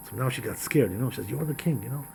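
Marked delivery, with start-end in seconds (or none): 1.3-2.0 starts hushed, climbs to a high, loud accusation; frightened woman rising to loud, high reproach; building outrage. Acted. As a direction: grow from a wary hush to an indignant cry. Witch confronts the disguised king.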